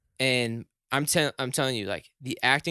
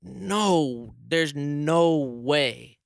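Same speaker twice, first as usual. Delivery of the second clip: stunned disbelief; 3 semitones higher, much slower than usual. Retold or imitated. Guest reacting to the radio host's fake grief prank, slow and stunned. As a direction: stretch it out like you can't process it. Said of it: "so in shock".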